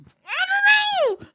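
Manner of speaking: slow, high laughing wail; giddy drawn-out laughing cry. Real, not acted. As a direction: drag it out laughing. Laughing exclamation.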